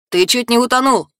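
high-pitched cry from the crowd; mild shout. A narrator's reading. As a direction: call it out in alarm, not full volume. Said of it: "закричал кто-то".

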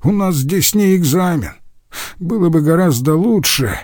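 high-pitched, mildly outraged protest; heated objection without real shouting; indignant cry. A narrator's reading. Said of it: "закричал Рюдегер".

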